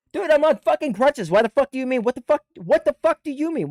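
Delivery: loud, high-pitched outraged retort; incredulous protest. Retold or imitated. Soldier on crutches answering being bitched at, high incredulous protest. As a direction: argue back in disbelief, voice shooting way up. Arguing back about going to hospital.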